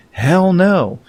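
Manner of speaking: high, mocking hell no; blunt sarcastic answer. Real, not acted. Vlogger mocking the opinion writer's question, sarcastic jeer. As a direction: throw the nuanced answer away with a jeer. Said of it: "here's my carefully nuanced answer".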